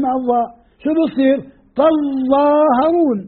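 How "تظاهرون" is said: تظاهرون drawn out with a heavy doubled ظ; slow recitation. Shown as a demonstration. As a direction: stretch تظاهرون, pressing the doubled ظ. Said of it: "الظاء المشددة جت من إدغام".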